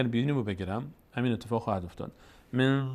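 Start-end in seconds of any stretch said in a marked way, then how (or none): 2.5-2.9 «من» with the n blocked in a pinched nose; nasal sound cut off. Shown as a demonstration. Teacher showing that sound stops when nose is held, «من» choked off. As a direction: let the hum of «من» stop dead.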